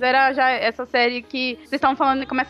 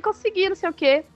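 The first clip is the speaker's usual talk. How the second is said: retold happy answer; 5 semitones higher than usual. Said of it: "eu saí toda contente".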